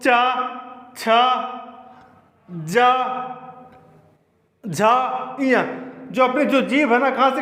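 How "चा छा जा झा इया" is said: चा, छा, जा, झा, इया, each slow and separate; teacher modelling the letters for the class; sounding out letters. Shown as a demonstration. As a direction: say each one so they copy it. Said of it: "बोल के देखो".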